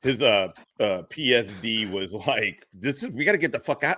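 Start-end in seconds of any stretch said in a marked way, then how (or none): 2.7-4.0 fast, higher-pitched mock urgency; quick retold plea to leave; imitated urgency. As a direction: hurry it along like an impatient escort. Retelling security detail urging to leave.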